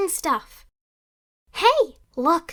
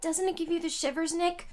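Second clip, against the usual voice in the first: much softer, spooked murmur; uneasy hush; 8 dB quieter than usual. Acted. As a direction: say it as if the crime scene chills you. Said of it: "You're real quiet all of a sudden".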